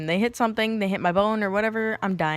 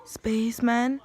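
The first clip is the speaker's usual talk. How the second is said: whisper; 3 semitones higher, slower than usual. Retold or imitated. Dazed from gas.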